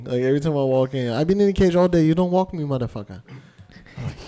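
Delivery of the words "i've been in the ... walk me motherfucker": higher, louder griping in a mock Asian accent. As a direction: scold your owner as an Asian-accented dog. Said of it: "like an Asian dog".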